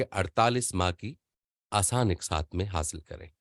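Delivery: measured, well-pronounced billboard read; voice-over read. Shown as a demonstration. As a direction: read "अड़तालीस माह की आसान इकसात में हासिल करें" with careful, polished diction like a voice-over artist. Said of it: "एक voice over artist पढ़ता है".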